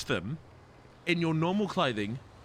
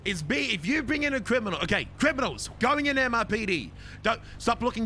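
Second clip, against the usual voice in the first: megaphone shout; 6 semitones higher than usual. Real, not acted. Megaphone announcement.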